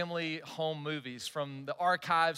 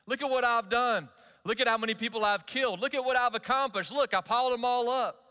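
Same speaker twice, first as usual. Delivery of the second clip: raised, loud bragging voice; mock boasting; 5 semitones higher, 4 dB louder than usual. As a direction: crow about your own feats like a show-off. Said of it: "he's boasting".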